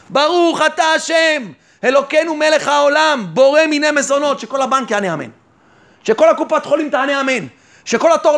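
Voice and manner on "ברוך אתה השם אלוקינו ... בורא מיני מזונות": blessing recited aloud. Shown as a demonstration. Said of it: "אני אברך בקול רם".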